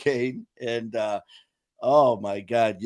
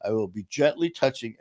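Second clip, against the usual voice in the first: professional tone; 3 semitones lower, 5 dB quieter than usual. Retold or imitated. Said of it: "trying to be all professional".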